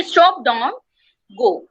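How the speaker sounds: group STOP with don't, break, then GO; pause before GO. Shown as a demonstration. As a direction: STOP don't run together, then GO set apart. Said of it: "when I say stop, don't".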